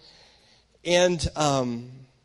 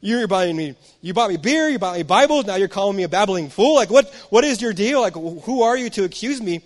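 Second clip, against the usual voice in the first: rising, louder indignant retort; angry retort, a bit higher and louder; mad comeback; 3 semitones higher, 5 dB louder than usual. Retold or imitated. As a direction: snap back at the accusing brother. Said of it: "I was mad".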